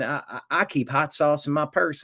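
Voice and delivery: put-on Southern Hillary accent. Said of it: "my accent's getting a little weirder".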